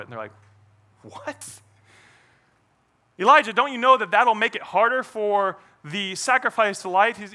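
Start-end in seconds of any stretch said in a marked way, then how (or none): 1.0-1.6 soft, very high-pitched "what"; squeaked mock disbelief; incredulous. Baffled people react to order. 3.2-7.2 raised, louder mock protest; incredulous objection. People object to Elijah.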